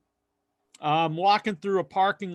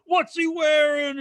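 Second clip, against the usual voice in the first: curious question; 11 semitones higher, 5 dB louder, slower than usual. Retold or imitated. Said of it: "And I was like".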